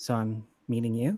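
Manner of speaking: tired, bored, uninterested and indifferent tone. Voicing a woman greeting someone she is meeting, in an uninterested tone. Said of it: "like an uninterested tone".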